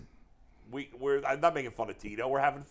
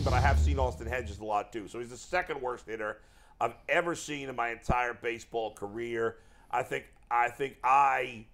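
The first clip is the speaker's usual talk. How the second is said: lightly voiced old baseball manager; a loose impression of a deliberate old manager; hint of a put-on coach voice; Terry Francona. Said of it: "trying to do an impression of him".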